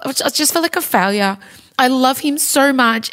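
emotional. Real, not acted. Mother upset about sick son.

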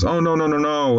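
high, mildly horrified realization; retold dismay. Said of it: "Gower realizes what he's done".

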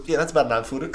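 matter-of-fact. Retold or imitated. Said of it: "he says it like it's common".

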